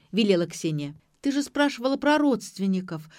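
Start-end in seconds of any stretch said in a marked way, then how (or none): 1.3-3.1 higher, louder whiny protest; whining. A narrator's reading. Mother whining back at her questioning daughter. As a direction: whine it defensively. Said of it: "заныла Ира".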